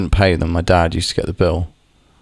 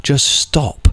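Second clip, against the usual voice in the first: mildly exasperated, leaning on STOP; insistent retold scolding; frustrated plea. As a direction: act out fed-up pleading, a touch heated. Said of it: "you get so angry".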